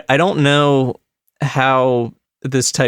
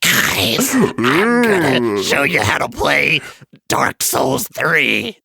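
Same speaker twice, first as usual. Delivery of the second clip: put-on streamer voice, slowing at the end; cartoon duck streamer; slower than usual. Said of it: "Terrence is like".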